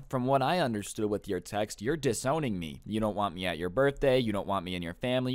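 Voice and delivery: calm, measured retelling; understated, unruffled explanation. Retold or imitated. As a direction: imitate a stepson explaining evenly. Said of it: "very calmly starts to explain".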